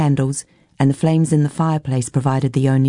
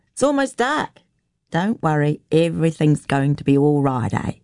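reassuring country woman. Acted. Woman coaxing a girl into the house, lightly reassuring. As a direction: coax and reassure as a homely woman.

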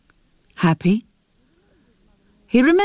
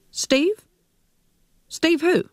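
shocked disbelief; 10 semitones higher, slower than usual. Acted. Shocked son, mother answers.

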